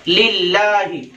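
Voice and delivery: "लिल्लाहि" slow, with long aa and final hi sounded; measured teaching demo of "लिल्लाहि"; correct pronunciation. Shown as a demonstration. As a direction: stretch "लिल्लाहि" as "lil-laa-hi". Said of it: "ये सही है".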